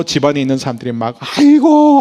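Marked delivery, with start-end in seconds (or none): 1.2-2.0 a high, loud keening cry; imitating a wailing mourner; mourning wail. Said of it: "하면서 막 울기 시작합니다".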